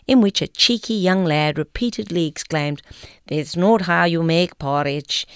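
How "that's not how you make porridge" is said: imitated Scots lad from an advert; broad Scots accent. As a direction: put on a Scots accent with a tapped r. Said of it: "in a broad Scots accent".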